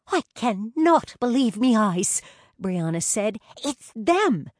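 be dazzled by who you see; starstruck. A narrator's reading.

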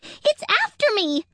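high, loud panicked cry; panicked gasp. Acted. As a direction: gasp it out in fear. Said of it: "gasped the squirrel".

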